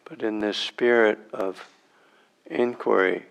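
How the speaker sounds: unhurried meditation guide, long silences between phrases; spacious, measured meditation instruction with long pauses; guided meditation. Real, not acted. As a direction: guide them into sitting, phrase by phrase.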